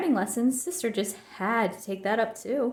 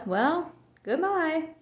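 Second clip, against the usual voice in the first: hurt goodbye; 6 semitones higher, much slower than usual. A narrator's reading. Gran hurt after a pause.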